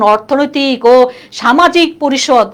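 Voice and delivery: slow, drawn-out full name; laboriously long-winded. Shown as a demonstration. Teacher shows why the full name is cumbersome, slowly and laboriously. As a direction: spell out every part as a mouthful. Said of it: "বলতে কষ্ট হয় না".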